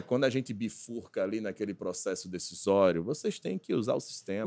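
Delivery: lightly intoned consultant, pitched low; a touch of mock presenter solemnity; radio announcer voice. Parodying a consultant's advice to clients, lightly put-on announcer voice. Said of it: "Essa voz de radialista".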